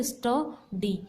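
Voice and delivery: "स्ट, डी" as two separate beats; syllable by syllable. Shown as a demonstration. Teacher gives students another two-syllable example, "स्ट, डी" said in separated syllables. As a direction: pause between "स्ट" and "डी" to show two syllables. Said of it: "two times".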